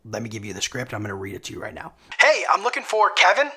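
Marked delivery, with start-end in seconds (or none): 2.2-3.5 bright, high-pitched friendly greeting; high energy. Shown as a demonstration. Cold caller greeting the gatekeeper with high-energy friendliness. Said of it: "In a very high energy tone".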